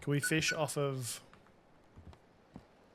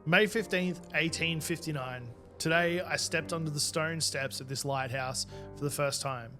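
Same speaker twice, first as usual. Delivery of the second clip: diary narration. Acted. Reading keeper's diary entry.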